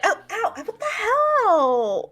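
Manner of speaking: high, drawn-out indignant yelp; pained outcry. Acted. Ayala reacts to a jab in the forehead, pained outcry. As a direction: cry out in mock pain, stretching it.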